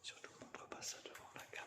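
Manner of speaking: whispering. Real, not acted. Whispering on ghost hunt.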